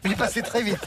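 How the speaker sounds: laughing out the words; chuckling while answering. Real, not acted. Laughs at the joke.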